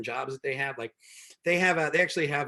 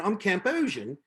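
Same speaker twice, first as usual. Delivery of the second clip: put-on "I'm Camp Ocean" in a light foreign accent; a hint of an accent; 4 semitones higher than usual. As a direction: lightly imitate her accent, "Ocean" like "Oceian". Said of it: "she had a little accent".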